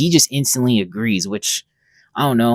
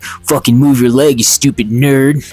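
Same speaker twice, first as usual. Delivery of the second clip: loud, retold bully order; bully interrupting and insulting a kid, lightly acted; school bully; 5 dB louder than usual. Bully ordering a nerd out of the way, mock aggressive. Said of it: "a stereotypical early two thousand school bully".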